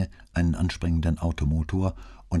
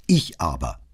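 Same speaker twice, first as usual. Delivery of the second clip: "Ich aber" said louder, with firm emphasis; emphatic; 5 dB louder than usual. A narrator's reading. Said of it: "sagte er mit Nachdruck". ("Ich aber" mit Nachdruck)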